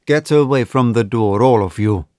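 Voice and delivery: curt command. Acted. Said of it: "he commanded shortly".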